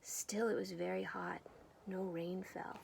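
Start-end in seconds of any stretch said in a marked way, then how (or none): 1.9-2.8 whispered. A narrator's reading. Dry weather refrain whispered.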